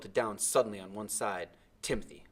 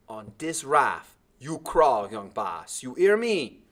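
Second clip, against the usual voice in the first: loud, slow angry warning; thick with anger; 3 semitones higher, 9 dB louder, slower than usual. A narrator's reading. Timothy warns the boy to crawl on the raft, angry. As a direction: lay down the law, seething. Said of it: "his voice thick with anger".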